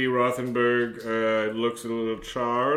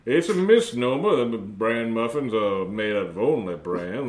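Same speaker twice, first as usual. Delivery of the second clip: put-on robot mouth keeps rambling in a light Minnesota accent; chatty Minnesota recipe talk, slowing near the end; a hint of Minnesota, amused; 5 dB louder than usual. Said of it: "this is a Minnesota accent".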